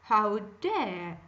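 loud, slow, furious shout; the proud wife shouting at her husband after slapping him; shouted in passion. A narrator's reading. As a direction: bellow it at him in a rage. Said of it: "then shouted in passion".

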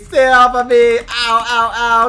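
hammed-up cries of disgust and pain; panicked yelling. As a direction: yelp and fight off an attacker. Being grabbed by the fangirl.

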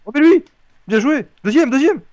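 excited. Real, not acted. Celebrating a goal in game.

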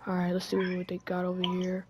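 hushed whisper to yourself; sneaky whisper. Pretend. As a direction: whisper while creeping around unseen. Sneaking around the closed store.

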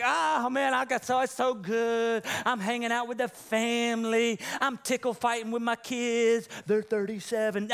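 a hint of a carefree dad bragging; mock blissful parent. Pastor playing a rested parent, lightly boastful. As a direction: lightly voice someone with all the time in the world. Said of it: "When's the last time you're like".

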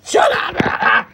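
a sharp tearful yell; crying shout. Real, not acted. Startled in the dark, yelling through tears. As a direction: blurt it out, half crying. Sudden outburst after long silence.

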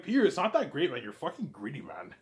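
half-hearted telling-off, starts loud and drops; mild retold annoyance. Himself scolding greedy Peter, loud at first then fading. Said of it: "I'm like".

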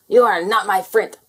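a blobby storming off from a friend; angry. Acted. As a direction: fling it at a friend in a huff. Friends quarrelling with insults.

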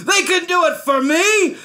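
very high, loud, gleeful orders; triumphant royal cry, stretching the end; excited commanding king. A narrator's reading. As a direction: shout orders with mad delight.

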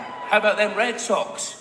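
slowed, drawn-out sports fan cheer; slow hometown sports fan cheer; mock Boston fan. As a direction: play the hometown fan, dragging it out. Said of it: "I said".

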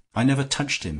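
high, loud outburst; desperate cry. A narrator's reading. Young Bullen breaking down before the group, desperate cry. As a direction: burst out in panic. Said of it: "he cried".

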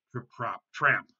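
spoken stomps, punched on tramp; heavier hoofbeats. A narrator's reading. Big goat crosses the wooden bridge, heavy stomping words. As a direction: land hard on the last word. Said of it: "It sounded heavier".

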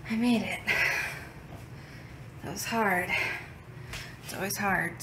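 winded from the stairs; breathless after climbing stairs; out of breath. Real, not acted. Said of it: "excuse me, my breath".

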